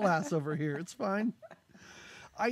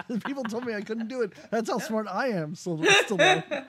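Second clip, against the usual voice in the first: mock bragging kid; 3 semitones higher than usual. Host imitating the kid boasting to Stallone, fast hammed-up brag. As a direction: ham up a smug child's brag.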